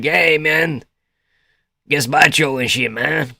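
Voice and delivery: hammed-up Mexican accent greeting. Shown as a demonstration. Streamer demonstrating what they can do, mock Mexican accent. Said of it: "I can go like".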